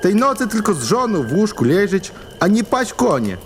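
long for home in bed; grumbling villager. Acted. Julek grumbles. (tęskny chłop)

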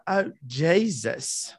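slow, breathy pretend moan; mock moan. The speaker imagining Nina moaning, slow mock moan. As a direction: moan out Oh, Jesus, slowly. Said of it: "if she was to moan".

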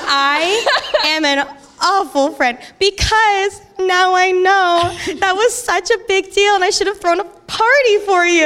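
high, stretched-out guilty wail; on the verge of crying. Retold or imitated. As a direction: wail the self-blame, laughter mixed in. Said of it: "Are you gonna cry right now?".

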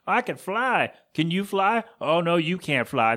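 hammed-up teasing; taunting birds. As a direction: playfully imitate show-off birds teasing. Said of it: "They don't sound like that".

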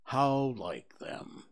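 gloomy donkey Eeyore. Acted. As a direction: sigh it out like a sad old donkey.

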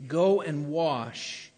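"Go and wash" drawn out slowly; slow emphasis. Acted. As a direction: lean slowly on each word. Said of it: "he says".

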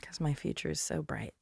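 breathy whispered aside. Pretend. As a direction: whisper it like a secret.

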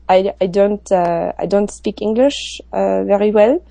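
put-on slow, halting French-accented English; French accent, playing a tourist. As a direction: fake a French accent to shake him off. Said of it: "And I said in a French accent".

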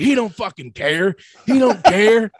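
high, loud mock London bluster; Eddie Hall. Eddie Hall brushing off his scared son, loud mock bluster. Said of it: "That's how I was doing his voice".

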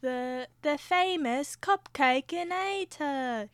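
slow salesman pitch, lightly voiced; a hint of cartoon cat hawking a gadget; Cat in the Hat pitch. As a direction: sell the gadget like a TV ad, slowly. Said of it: "What's another line from Cat in the Hat?".

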